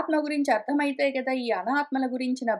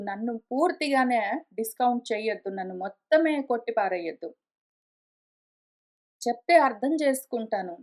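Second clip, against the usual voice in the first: lightly voiced disciple, a little lower; mild protest to a teacher, kept low; Arjuna; 3 semitones lower than usual. Disciple asks the guru not to dismiss him, mildly protesting. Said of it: "అర్జునుడు".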